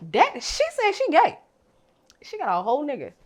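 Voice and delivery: high mocking voice of an online critic. Imitating a viewer who doubts her, high and mocking. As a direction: mimic a sneering commenter. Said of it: "gonna be like".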